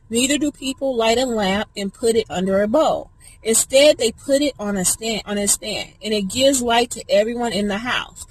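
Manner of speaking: earnest Bible reading; scripture reading. Acted. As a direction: read the verse with conviction. Reads scripture aloud.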